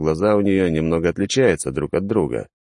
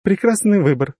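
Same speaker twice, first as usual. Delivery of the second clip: playful praise; 13 semitones higher, 3 dB louder than usual. Acted. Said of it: "шутливо похвалила".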